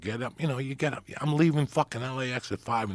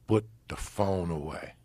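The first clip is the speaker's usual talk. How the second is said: slow, lightly imitated German accent; 2 semitones lower than usual. German by the window ordering him, slow German accent. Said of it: "They had a German accent".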